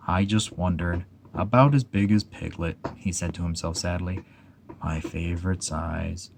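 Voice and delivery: a sad donkey mourning his balloon; gloomy Eeyore. Acted. Eeyore's voice in story.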